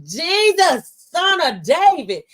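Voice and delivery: crying out. Retold or imitated. Blind man's plea to Jesus retold on air, crying out. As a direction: call out for mercy, pitch swooping high. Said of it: "he heard, ... the ones that cried out".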